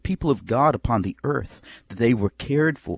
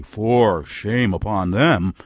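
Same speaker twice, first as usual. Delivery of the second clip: slow, drawn-out pious scolding; mock reproach; 3 semitones lower, slower than usual. Preacher imitates a churchgoer condemning others, slow mock reproach. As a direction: draw it out as a sanctimonious rebuke. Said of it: "you will rise up and say".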